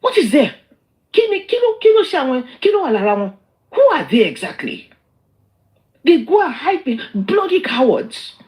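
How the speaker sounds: heated, high-pitched questioning; indignant challenge. Real, not acted. Streamer challenging online critics as cowards, indignant. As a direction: demand answers, then drag out the final insult.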